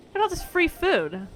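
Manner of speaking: gleeful shout at free food; excited cry. Real, not acted. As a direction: burst out in delight at the food. Spots a city full of food.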